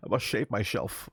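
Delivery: put-on slushy-s Scottish Connery accent; Sean Connery. Co-host joins in as Connery, Scottish accent. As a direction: say it as a Connery impression. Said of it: "you're very good at the Connery".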